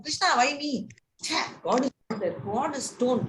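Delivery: high, plaintive, mock-pitiful cry to Krishna; whiny complaint. Devotee complaining to God in a high, whiny voice.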